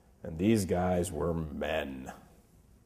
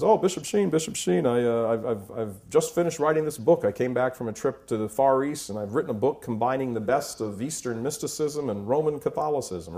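lightly voiced eager hippie, pitched up; 4 semitones higher, 3 dB louder than usual. Hippie pitching his book to the bishop, eager and high. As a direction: gush like an excited young author. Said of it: "And he says".

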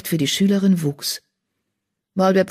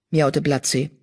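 plain reading voice

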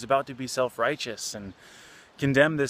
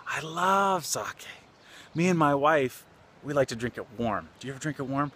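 put-on delighted old man; 3 semitones higher than usual. Old man disarms an angry drunk, delighted and savoring. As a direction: gush fondly, stretching the favorite words.

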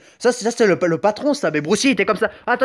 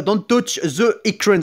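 slow, halting English with a French accent; much slower than usual. Shown as a demonstration. Gamer reading the game's warning aloud, halting French-accented English. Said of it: "j'ai un accent anglais".

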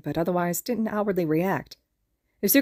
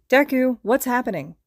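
higher, louder alarmed call; exclaiming; 5 semitones higher, 5 dB louder than usual. A narrator's reading. Awada bursting in on Deku in the tent, exclaiming. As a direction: burst in asking what's going on. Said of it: "Awada exclaimed".

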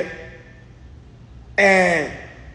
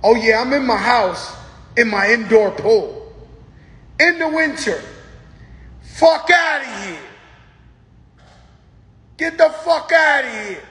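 mock Remy brag; 3 semitones higher than usual. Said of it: "Remy trying to let chicks know".

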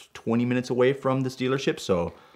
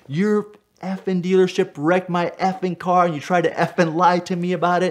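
yelling; 9 semitones higher than usual. Retold or imitated. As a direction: bellow it at helipad volume. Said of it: "and I'm yelling over the desk".

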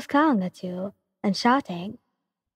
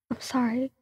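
small sorry; 3 semitones higher, 6 dB quieter than usual. Acted. Cornered, near tears.

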